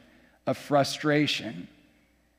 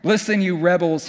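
a touch of frustration, a bit more push; exasperated leader scolding, mild; frustrated. Shown as a demonstration. Moses scolding the grumbling people, mild frustration. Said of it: "Must we hear a little frustration there?".

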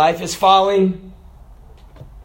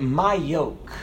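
gentle quote; 5 semitones lower, 7 dB quieter, much slower than usual. Acted. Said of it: "Jesus said".

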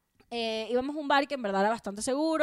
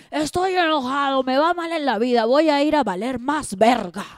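mock self-pity; 4 semitones higher, 9 dB louder than usual.

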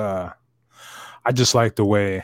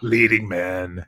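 mock whisper; 3 semitones lower, 4 dB louder, slower than usual. Real, not acted. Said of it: "mock whispered echo".

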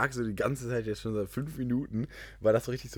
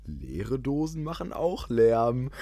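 Stromberg; 4 dB louder, much slower than usual. Pretend. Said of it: "wie so Stromberg einbauen".

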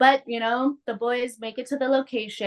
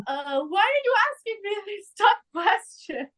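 high-pitched, hammed-up whine; mock bewildered complaint, pitched way up; mocking Archie; 10 semitones higher than usual. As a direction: imitate a flustered, clueless boy. Mocking Archie stumped by a question.

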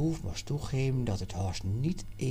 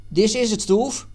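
high, loud, eager; excited discovery; 8 semitones higher, 8 dB louder than usual. Acted. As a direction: tell him you found it. Jan excitedly finds the coin. (opgewonden ontdekking)

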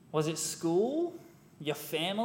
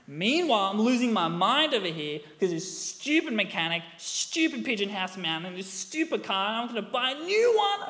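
a touch of reliving the anger, louder; cranky rant; 5 semitones higher, 4 dB louder than usual. Retold or imitated. Preacher recalls cursing the car on the drive, mildly heated. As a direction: grumble through each stupid thing.

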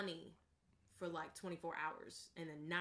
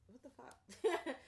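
baffled; 6 semitones higher, much slower than usual. Real, not acted. Reading baffling ballot text.

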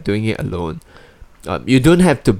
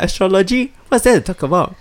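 scoffing; 9 semitones higher than usual. Real, not acted. Scoffing at astrology.

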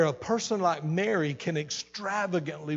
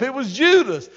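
higher and louder, hammering the name Judas; emphatic preaching; 7 semitones higher, 7 dB louder than usual. Real, not acted. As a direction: land "It was Judas" as a loud punchline.

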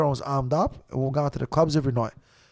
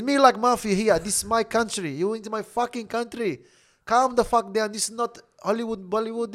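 higher-pitched broken-English warning; imitated mafia man; 5 semitones higher than usual. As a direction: act out a local boss laying down the law.

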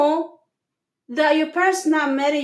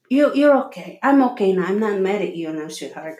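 tender reassurance; 5 semitones lower, faster than usual. Retold or imitated. Parent soothing a child.

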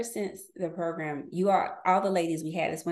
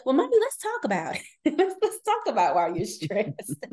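quoting her daughter. Retold or imitated. Mother quoting her young daughter.

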